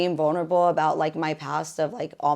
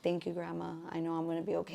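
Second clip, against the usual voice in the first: retold tearful thanks; 10 dB quieter, faster than usual. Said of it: "I start crying".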